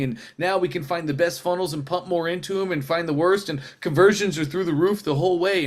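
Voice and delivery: lightly voiced jargon-heavy sales pitch; technobabble pitch. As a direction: rattle off marketing buzzwords a bit smugly. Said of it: "Russell goes into his technobabble speech".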